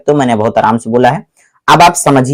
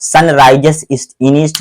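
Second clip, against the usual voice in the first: slow dictation; much slower than usual. Shown as a demonstration. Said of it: "teacher repeats slowly".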